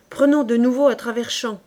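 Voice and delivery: loud decisive command; exclaiming. Acted. Corporal ordering the men across the fields, loud. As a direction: call the change of route firmly. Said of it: "s'écria le caporal".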